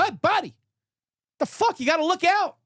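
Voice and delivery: high-pitched indignant mock yell; retold yell. Golfer to the driver who almost hit him, retold yell. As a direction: call out as if nearly run over. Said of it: "I yell".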